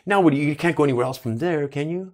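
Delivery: lightly voiced host; Lisa Gibbons impression. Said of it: "she goes".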